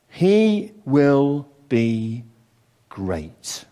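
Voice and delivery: the angel's promise drawn out and sinking to a hush; dramatic proclamation. Acted.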